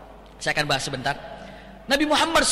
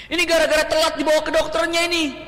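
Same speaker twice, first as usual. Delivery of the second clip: high mock wail of blame; demonstrated lament; 7 semitones higher than usual. Shown as a demonstration. Mourner blaming the late trip to the doctor, mock lament. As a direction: act out a bereaved complaint. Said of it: "Itu meratap".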